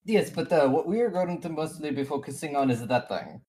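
lightly voiced accented NPC, a bit flustered. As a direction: introduce your party in the NPC's accent.

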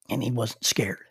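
hushed whisper, barely voiced. Real, not acted. Preacher whispering to the congregation about a dying mentor. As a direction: drop to a whisper to let it land.

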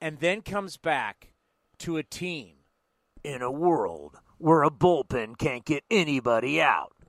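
slow, dramatic trailer narration; movie trailer voice. Acted. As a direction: build it like an epic film trailer. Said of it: "It's my movie trailer voice".

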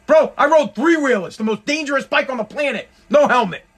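mock-outraged rant about helmets; exasperated rant. Real, not acted. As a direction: vent at the cyclist, pitch up. Ranting about cyclist helmets.

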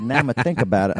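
put-on New York accent. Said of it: "that's my New York accent right there".

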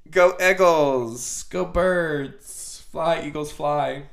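loud team cheer. Real, not acted. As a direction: shout it like a fan in the stands.

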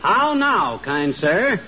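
hammy courtly gent; Sir Walter Raleigh. Acted. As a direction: lay on the olde-English charm. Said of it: "the way Sir Walter Raleigh talks".

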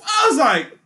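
ordinary talk

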